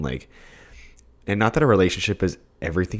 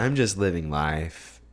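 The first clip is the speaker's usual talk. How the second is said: slow, lightly mimicked voice; Kourtney Kardashian impression; 4 dB quieter, slower than usual. Friend quoting a celebrity meme, lightly put-on slow voice. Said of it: "in her voice. That's a really bad impression".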